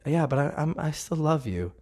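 softly retold tender reassurance; gentle reassurance. Holy Spirit consoling the speaker who failed, gently reassuring. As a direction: soften into a quiet, loving reply. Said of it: "there's Holy Spirit".

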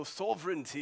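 sovereignty in a put-on English accent, first syllable rounded to SOV. Shown as a demonstration. Preacher showing his church how the word sounds, English accent. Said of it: "You say it in an English accent".

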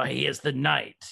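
a hint of a Batman impression; Kevin Conroy Batman voice. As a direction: attempt a Batman voice, badly. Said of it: "you know, the Kevin Conroy voice".

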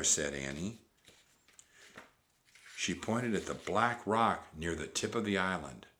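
ordinary delivery

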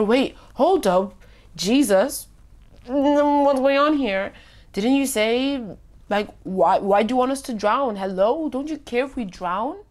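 mildly hammed-up bewildered protest; incredulous disciples. Disciples challenging Jesus as the boat sinks, incredulous. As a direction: question it in lightly acted disbelief, pitch lifting. Voicing disciples panicking in the storm.

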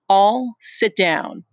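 slow commanding Jack. Acted.

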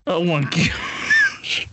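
slow, laughing oh my gosh; laughing in disbelief. Real, not acted. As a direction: crack up in disbelief. Reacts to pooping confession.

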